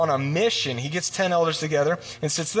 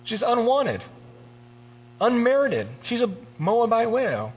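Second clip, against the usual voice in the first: higher, rushed, fussing voice of a man backing out; hammed-up panic over the inheritance; flustered refusal; 4 semitones higher than usual. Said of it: "he's even a little flusterated".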